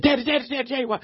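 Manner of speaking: high, breathless calling of Daddy over and over; imitating his daughter bursting with news; excited little girl. Little girl calling dad at church, high and excited. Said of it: "and she's so excited".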